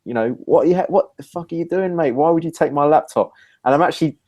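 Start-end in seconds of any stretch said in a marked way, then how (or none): 0.5-3.3 raised, indignant demand; retold loud challenge. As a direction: call him out so the pub hears. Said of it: "I'm actually saying it quite loud".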